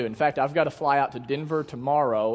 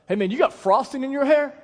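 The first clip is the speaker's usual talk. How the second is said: higher, casual voice of a cashier; airport cashier; 7 semitones higher, 4 dB louder than usual. Retold or imitated. Cashier teasing a customer at the gum desk, in a raised mock voice. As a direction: toss it off like a bored cashier.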